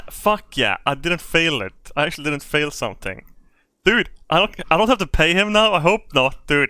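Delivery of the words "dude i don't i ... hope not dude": excited. Real, not acted. Thrilled about not paying.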